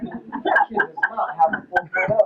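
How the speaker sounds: mock disbelief. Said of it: "And it was like".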